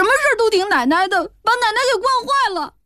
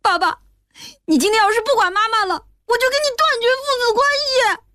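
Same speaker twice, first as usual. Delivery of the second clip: put-on high tearful child's voice, sobbing through the words; a little boy crying at his father; 11 semitones higher, faster than usual. A narrator's reading. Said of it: "小军边哭边说". (小男孩边哭边质问爸爸)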